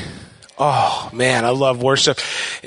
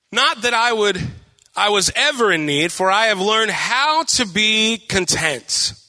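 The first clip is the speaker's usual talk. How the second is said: higher, deliberate reading with drawn-out phrases; scripture reading; 4 semitones higher, slower than usual. A narrator's reading. Pastor reading Philippians to church, scripture reading. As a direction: read the verse out to a congregation.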